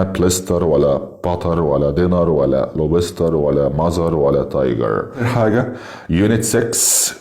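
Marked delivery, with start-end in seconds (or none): 0.0-5.1 بليستر and تايجر ending in Arabic-style "ar"; wrong rolled R. Shown as a demonstration. Teacher listing wrong pronunciations, بليستر with Arabic-style r. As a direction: tap the final r in each, like تايجر. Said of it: "ما فيش حاجه اسمها".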